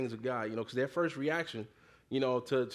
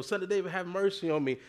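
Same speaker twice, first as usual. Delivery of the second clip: lightly raised, higher-pitched retold plea; more insistent cry; 4 semitones higher than usual. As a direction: mildly imitate a persistent cry for mercy. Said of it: "he said it all the louder".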